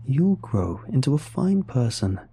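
lightly voiced sweet creature; a hint of a chiming, charming monster; tinkling bell-like voice. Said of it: "answered back in a voice tinkling with a bell-sounding".

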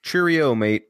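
mock English accent, Cheerio mate; hammed-up British accent. Friend shows off his English accent. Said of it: "That's my English accent for you".

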